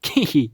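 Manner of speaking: short put-on giggle; imitated single giggle. Showing Maria laughing at each click, imitated giggle. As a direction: give one quick mimicked giggle. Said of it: "Maria laughs once".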